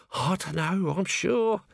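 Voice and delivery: high-pitched hard-done-by character voice; aggrieved, self-pitying lament; put-upon working man's moan; woeful Nobby. A narrator's reading. Nobby keeps lamenting his fate.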